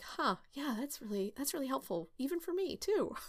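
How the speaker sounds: quietly impressed by her own notes; hushed mock discovery; pleasantly surprised. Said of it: "every time I'm like".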